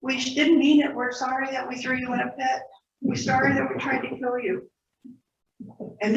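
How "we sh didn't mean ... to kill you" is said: high, pleading, hammed-up sobbing sorry; a hint of tearful brothers pleading with their lost brother; mock crying apology. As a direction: play the guilty brothers begging forgiveness, voice pitched up. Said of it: "crying and carrying on".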